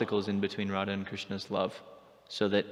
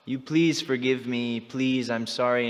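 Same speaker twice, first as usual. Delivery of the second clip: retold pleading; 2 semitones higher, slower than usual. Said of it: "he has to beg".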